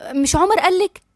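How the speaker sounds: mildly strained composure; trying to hold composure. A narrator's reading. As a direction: ask slowly, keeping yourself together. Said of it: "بتحاول تتماسك".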